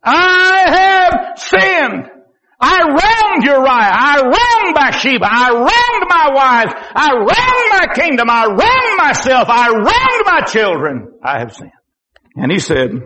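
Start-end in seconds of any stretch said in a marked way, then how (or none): 0.0-11.1 anguished high wail, drawn out very slowly; David, heartbroken. Acted. David confessing his wrongs to Nathan, heartbroken wailing cry. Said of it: "It broke his heart". 11.2-11.7 David, heartbroken. Acted. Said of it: "It broke his heart".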